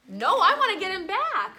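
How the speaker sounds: hammed-up revenge cry; mock vengeful outburst. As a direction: play the kid who wants payback. Teacher acting out revenge impulse.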